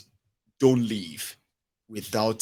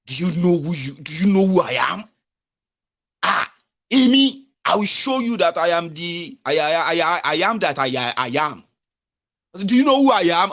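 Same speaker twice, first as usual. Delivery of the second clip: higher, louder mock self-important outrage; mock indignant outburst; 4 semitones higher, 4 dB louder than usual. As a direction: puff up like an offended big man. Acting out an official's indignant outburst.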